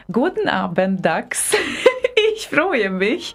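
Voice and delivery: spoken German greeting; German greeting on request. Shown as a demonstration. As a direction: say it in German for Dax, slowly. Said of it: "please say".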